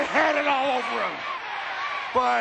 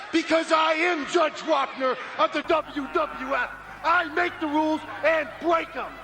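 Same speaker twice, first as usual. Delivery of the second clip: boastful promo. Acted. Wrestler cuts boastful promo.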